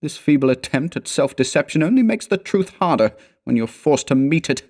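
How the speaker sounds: high, strained, urgent warning; tense, contemptuous advice, pitch held up; scornful resignation. A narrator's reading. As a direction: lecture a friend with resigned scorn. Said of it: "scorn in his voice and a sort of resignation".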